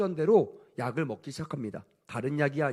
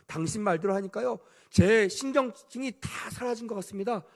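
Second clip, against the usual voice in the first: gushing thanks; 3 semitones higher than usual. Retold or imitated. Grateful wife gushing to doctor.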